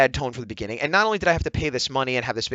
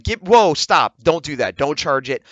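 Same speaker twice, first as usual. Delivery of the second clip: urgent protest; 5 dB louder, slower than usual. Retold or imitated. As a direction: cut in to halt someone in alarm. Acts out stopping an unwanted charge.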